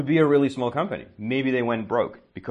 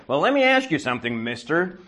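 imitating an upset woman, higher and pointed; mock indignant; 5 semitones higher than usual. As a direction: challenge him like an offended caller. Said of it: "Marie gets really upset".

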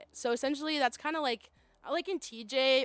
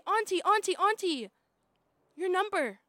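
put-on high, pleading little kid calling auntie; begging child; 6 semitones higher, 5 dB louder than usual. Kids begging auntie for her phone number, high pleading child voice. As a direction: beg like an eager child.

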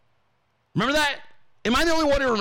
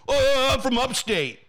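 higher-pitched mock-evasive voice; mimicked sheepish New Yorker; 7 semitones higher than usual. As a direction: play someone dodging where they come from.

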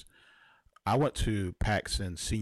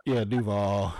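weak cheer; 7 dB louder than usual. Real, not acted. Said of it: "that sounded kinda weak".

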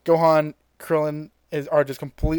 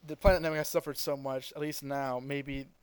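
hushed and much softer, solemn lines for the fallen; quiet, solemn Piccolo; 10 dB quieter than usual. Retold or imitated. Piccolo mourning the Namekians to Krillin, hushed and solemn. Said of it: "Piccolo says".

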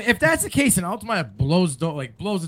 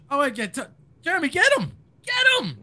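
high excited egging on; 8 semitones higher than usual. Real, not acted. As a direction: sic him, gleefully. Urging friend to attack.

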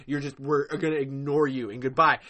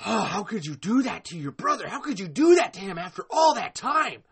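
indignant plea, rising in force; real hurt outrage at a betrayal; anguished reproach; 2 semitones higher than usual. Real, not acted. Anguished reproach to absent Glenn.

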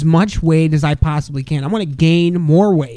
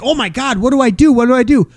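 higher, mock-flustered opponent; mock panicked girl; 6 semitones higher than usual. Opposing girl panicking under pressure, mock fluster. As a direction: play the panicking girl, hammed up. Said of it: "The girl was like".

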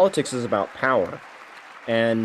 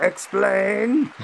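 high, rising robot glitch voice; 9 semitones higher than usual. Retold or imitated. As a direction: squeak it out like a malfunctioning android. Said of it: "the Republicans are like".

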